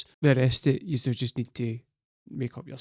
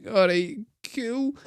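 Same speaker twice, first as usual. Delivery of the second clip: mock breezy girl; 8 semitones higher, slower than usual. Mocking the girl agreeing to the kiss, high and breathy. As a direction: play it casual, then squeal. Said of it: "And she's like".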